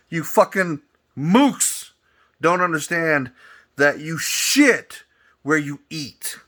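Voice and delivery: slow angry sneer. Real, not acted. Ranting at New York police, slow scornful sneer.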